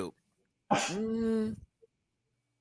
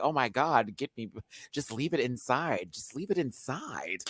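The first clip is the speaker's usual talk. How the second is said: breathy plea; 8 dB quieter than usual. Retold or imitated. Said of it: "And I was like".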